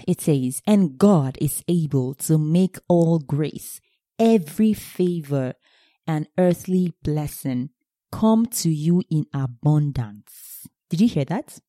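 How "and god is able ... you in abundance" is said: slow, savoring scripture reading. Acted. Preacher to congregation, reading the verse slowly. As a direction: linger on every phrase of the verse.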